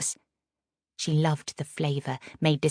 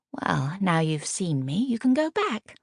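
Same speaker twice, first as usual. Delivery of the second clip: dismissive; 3 semitones higher than usual. Acted. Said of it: "she said without looking up".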